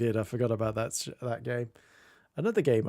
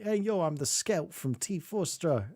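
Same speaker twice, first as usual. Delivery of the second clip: scout guy; 4 semitones higher than usual. Retold or imitated. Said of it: "Just go like".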